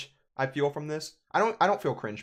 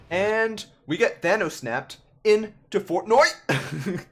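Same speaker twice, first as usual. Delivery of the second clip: mock hype; 6 semitones higher, 5 dB louder, much slower than usual. Sarcastic dig at Fortnite trend.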